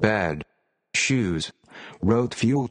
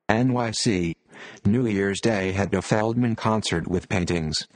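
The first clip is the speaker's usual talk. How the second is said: computer-generated reading voice. Real, not acted. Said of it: "audio using a computer-generated voice".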